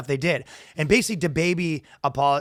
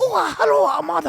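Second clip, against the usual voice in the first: put-on high, loud caricatured Asian accent; hammed-up Asian-accent greeting; mock Asian accent; 6 dB louder than usual. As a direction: squeal it in a cartoon Asian accent. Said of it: "in a racist Asian accent".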